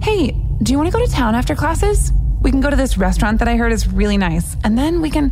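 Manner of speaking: high, eager, rushing into plans; excited. A narrator's reading. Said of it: "Ella's excited voice".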